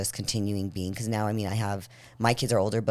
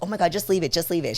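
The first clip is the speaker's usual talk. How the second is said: higher-pitched mock teenage protest; exasperated teen imitation; 6 semitones higher than usual. Teenage daughter to upset mom, mock exasperation.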